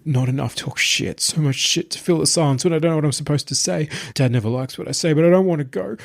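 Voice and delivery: put-on babbling child, scared and rising; scared, childlike babble, climbing high; frightened gibbering. A narrator's reading. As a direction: spill the words out in fear. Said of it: "Marius's gibbering continued without pause".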